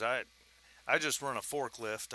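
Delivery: accidental Southern twang; Southern accent. Acted. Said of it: "I just went Southern on it".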